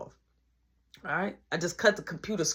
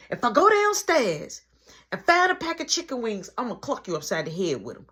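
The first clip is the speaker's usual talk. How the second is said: irritated mom; 2 semitones higher than usual. Retold or imitated. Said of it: "she was irritated about it".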